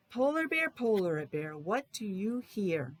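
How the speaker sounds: sing-song storybook title, slow on what do you hear; reading to children. Acted. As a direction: read the title like a picture book for little kids. Reads book to class.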